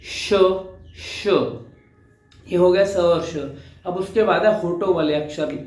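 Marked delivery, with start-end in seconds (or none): 0.0-1.3 breathy isolated श; demo sh sound. Shown as a demonstration. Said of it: "वो श की साउंड निकलेगी".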